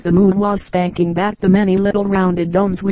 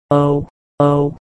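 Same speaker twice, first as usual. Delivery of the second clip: exclaiming; 4 semitones lower than usual. A narrator's reading. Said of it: "exclaimed the younger brother".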